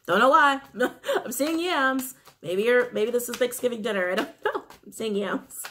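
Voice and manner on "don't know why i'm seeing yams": louder, higher, laughing through the words; amused laughing. Real, not acted. Tarot reader puzzled by seeing yams, amused laughing. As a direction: break into a giggle at your own odd remark. Amused at her own odd vision.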